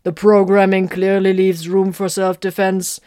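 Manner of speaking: loud, slow, pedantic correction; correcting. Acted. Guardian Spirit corrects Vox, loud and pedantic. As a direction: set them straight, precisely. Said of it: "the Guardian Spirit corrected".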